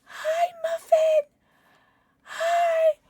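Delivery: high, slow cooing pet voice. Real, not acted. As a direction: coo at a tiny animal. Greeting new pet.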